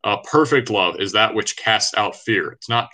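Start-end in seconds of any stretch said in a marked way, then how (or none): 0.2-1.0 "perfect" drawn out slowly for weight; emphasis on PERFECT. Real, not acted. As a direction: lean slowly on the word "perfect". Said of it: "put emphasis on the word perfect".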